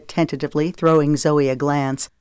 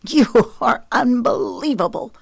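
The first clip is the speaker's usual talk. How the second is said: scornful; 7 semitones higher than usual. A narrator's reading. Scornful after a hard laugh.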